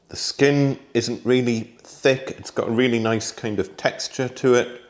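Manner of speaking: talking through a mouthful of tomato; chewing while talking; mouth full. Real, not acted. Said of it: "Sorry, I shouldn't talk with my mouth full".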